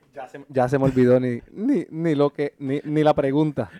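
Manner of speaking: mouth at waterline. Real, not acted. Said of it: "Estás hablando con la mascarilla del covid".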